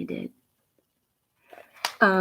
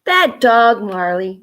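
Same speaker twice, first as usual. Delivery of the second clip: scolding; 5 dB louder than usual. Acted. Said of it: "Mama scolded".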